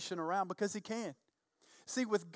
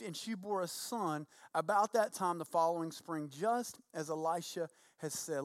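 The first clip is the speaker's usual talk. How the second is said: slightly lowered, measured Bible reading; scripture reading; 3 semitones lower than usual. A narrator's reading. Pastor reads Elisha's story to congregation, scripture reading. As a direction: read the passage aloud with understatement.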